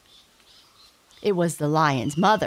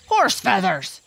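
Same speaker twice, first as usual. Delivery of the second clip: louder scoffing boar voice; 3 semitones higher, 5 dB louder than usual. A narrator's reading. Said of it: "said the other boar".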